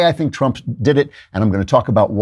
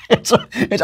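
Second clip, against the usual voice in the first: high laughter breaking the words; real laughter in a high voice; laughing; 10 semitones higher than usual. Real, not acted. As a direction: laugh through it. Laughing at his own bit.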